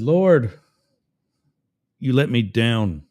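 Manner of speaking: mock let-down plea; disappointed. Drowned man complaining to God at heaven's gates, disappointed. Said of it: "all teary-eyed and disappointed and let down".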